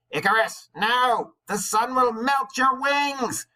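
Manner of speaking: high, loud, slow alarmed cry; shouted warning. Acted. Father shouting up at his flying son, loud alarm. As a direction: yell up to the boy in panic. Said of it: "his father shouted".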